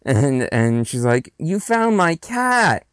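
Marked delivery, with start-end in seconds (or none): 1.4-2.9 high, slow, drawn-out joy; acted delight. Little girl reunited with her cat, acted delight. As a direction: lift it high like a delighted child.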